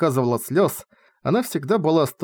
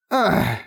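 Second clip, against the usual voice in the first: muffled cry. A narrator's reading. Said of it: "приглушённо вскрикнула".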